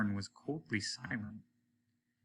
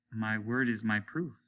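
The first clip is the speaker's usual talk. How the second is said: simply. Acted. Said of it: "said the mayor simply".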